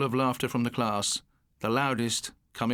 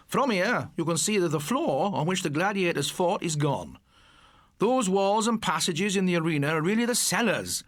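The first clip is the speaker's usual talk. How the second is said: lecturing teacher; 4 semitones higher than usual. Acted.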